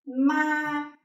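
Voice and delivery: "ma" held long and level at a high pitch; high flat tone. Shown as a demonstration. Vietnamese teacher demonstrating the first tone, high and flat. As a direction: say "ma" on one steady high note, no fall. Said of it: "high and flat tone".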